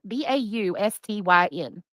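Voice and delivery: slow letter by letter; spelling slowly. Shown as a demonstration. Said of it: "look how it's spelled".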